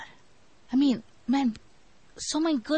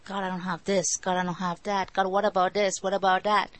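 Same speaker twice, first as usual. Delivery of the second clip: mock complaining; 3 semitones lower than usual. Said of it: "all we do is complain".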